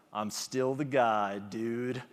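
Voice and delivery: a lightly voiced loser finding a little pride; timid comeback catchphrase. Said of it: "he kinda brightens up".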